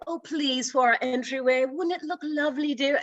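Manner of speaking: lightly voiced rich society wife coaxing; a hint of a pampered socialite wheedling; Mrs. Howell mode. Wife coaxing husband for an entryway painting, mock posh. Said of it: "Missus Howell mode".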